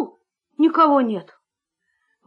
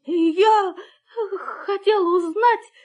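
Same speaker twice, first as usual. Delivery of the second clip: scared whisper; 5 semitones higher, 3 dB quieter, slower than usual. Acted. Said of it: "прошептал щенок".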